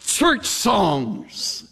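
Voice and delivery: high-pitched mocking demands; jeering captor. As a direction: taunt the prisoners into singing hymns. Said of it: "One of our captors said".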